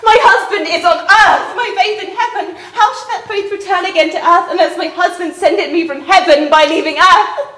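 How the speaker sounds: sobbing plea; tearful despair. Acted. Young wife begs nurse for counsel, tearful. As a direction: plead through shaking sobs.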